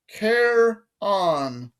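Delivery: high British voice, syllables held apart; British accent, demonstrating. A narrator's reading. Guard teaches boy his name, drawn-out British accent. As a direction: sound out the name slowly, British-style. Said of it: "Say it with me".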